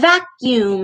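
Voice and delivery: "vacuum" started on a long vvv; buzzing V onset. Shown as a demonstration. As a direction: buzz into "vacuum" like a motor. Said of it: "we make a buzzing sound".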